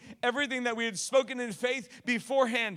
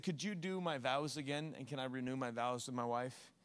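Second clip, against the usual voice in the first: humble quiet request; 8 semitones lower, 8 dB quieter than usual. Retold or imitated. Old husband asking humbly.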